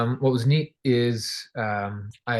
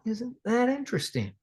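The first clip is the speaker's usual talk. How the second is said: wry thought; 9 semitones higher, 7 dB quieter than usual. Retold or imitated.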